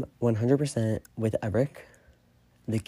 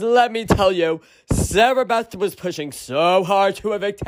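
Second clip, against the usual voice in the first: loud, high, gleeful gloating; excited gloating; 9 semitones higher, 6 dB louder than usual. Real, not acted. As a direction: crow over the rival's downfall. Gloating over an eviction.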